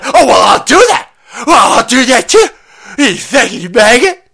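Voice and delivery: sarcastic comeback in a strange voice; mocking designer voice. Designer mocking his partner, high and loud. Acted designer snapping back.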